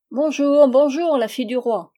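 high, loud greeting that eases at the end; crying out. A narrator's reading. Tiny old man hailing the king's daughter, crying out. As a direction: call out as a little old man. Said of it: "lui cria-t-il".

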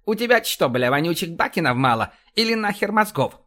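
high-pitched irritated dressing-down; berating a subordinate. Acted. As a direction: lay into an incompetent underling. Commander berates intelligence chief. (раздражённый разнос)

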